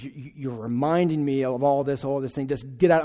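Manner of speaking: imitated furious yelling. Friend's mom turning on the boy, imitated fury. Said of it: "she just gets furious. And she yells at him".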